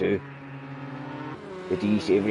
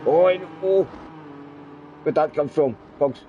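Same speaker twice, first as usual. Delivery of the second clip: excited surprise; 5 semitones higher than usual. Real, not acted. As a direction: caught off guard by the overtake. Sudden move in the race.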